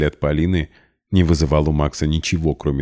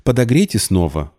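a higher, curt command to the maid; displeased order; 6 semitones higher than usual. A narrator's reading. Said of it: "недовольно бросила Полина". (недовольный приказ, выше обычного)

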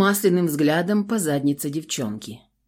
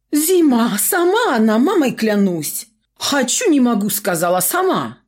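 very high, loud, frantic begging; panicked pleading; 6 semitones higher, 4 dB louder than usual. A narrator's reading. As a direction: beg in a terrified rush.

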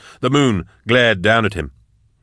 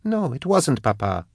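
high-pitched daughter's cry; 6 semitones higher, 4 dB quieter than usual. A narrator's reading. Daughter protesting to her father, a high cry. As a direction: cry out high, then fall away. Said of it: "Thea cried".

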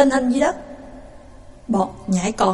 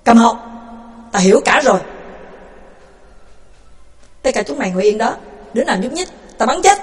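stern rebuke; faster than usual. Acted. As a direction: shut him up and warn them all. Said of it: "cau mặt".

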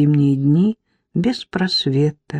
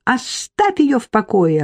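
higher angry demand; enraged; 5 semitones higher than usual. Acted. Irka grabbing husband's sleeve, angry higher demand. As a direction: make him let go. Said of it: "обозлилась Ирка".

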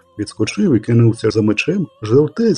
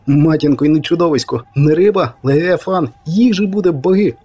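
amazed excitement; 4 semitones higher than usual. Acted. Poet marvelling at the giant catfish, excited and rising. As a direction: pitch climbing higher with wonder.

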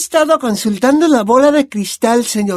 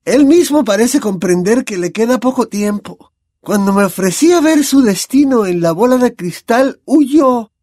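louder, rising to a high cry; raised seer's voice; 12 semitones higher, 4 dB louder than usual. A narrator's reading. Trelawney proclaims Lupin's fate across the table, voice raised. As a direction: build up her prophecy and raise the voice. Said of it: "elevó la voz".

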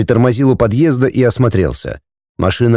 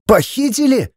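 shocked, hoarse; 12 semitones higher than usual. Acted. Andrei repeats the word in shock, voice failing. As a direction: gasp it out in disbelief. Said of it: "севшим голосом повторил Андрей".

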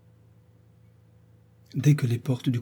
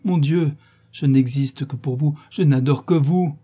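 louder, mock-ardent declaration; impassioned mimicry; 3 semitones higher, 4 dB louder than usual. Sophie quotes her lover's vows back at him, with mock fervour. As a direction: imitate a lover's fervent vows.

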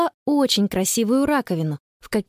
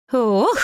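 sudden short exclamation; startled "oh"; 3 dB louder than usual. A narrator's reading. Grandma sinking into the mud, startled. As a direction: gasp out a quick "oh". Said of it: "вдруг воскликнула бабушка".

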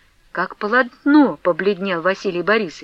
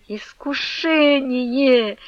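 slow, strained, half-sobbed exclamation; very slow tearful groan; quiet despairing cry; 4 semitones higher, much slower than usual. A narrator's reading. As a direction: moan it in despair, almost weeping. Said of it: "потихоньку восклицал".

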